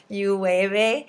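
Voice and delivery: light demo of the "you wave, eh" punchline; hammed-up Canadian boss. Shown as a demonstration. Teacher showing colleagues the last part, hammed up. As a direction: ham up the Canadian tagline. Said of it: "ham up that last part".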